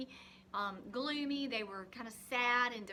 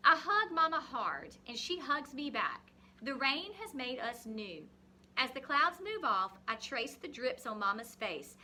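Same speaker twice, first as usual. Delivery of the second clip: put-on reading a picture book to children; story reading. Teacher reading a rain story to the class, expressive reading.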